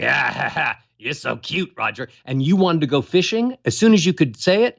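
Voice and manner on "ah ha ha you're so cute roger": a lightly voiced dad, softer, chuckling; dad laughing gently at his kid; imitating dad. Dad chuckling softly at his toddler. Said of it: "if dad spoke like this".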